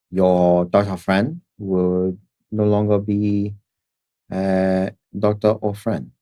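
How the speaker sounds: put-on slow, halting Chinese-accented menace; villain with a thick Chinese accent. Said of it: "I apologize for my Chinese accent".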